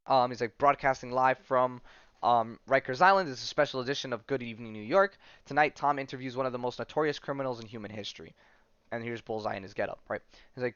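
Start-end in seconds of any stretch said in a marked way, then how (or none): 0.6-8.3 lightly voiced broadcast announcer; TV host intro. Host opening a live prison special, announcer style. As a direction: open the show like a TV presenter.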